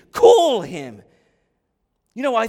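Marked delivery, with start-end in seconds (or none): 0.1-1.0 very loud, punched command; forceful pulpit cry; urgent exhortation. Real, not acted. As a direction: belt it out to a congregation. Preacher urges congregation to cry out.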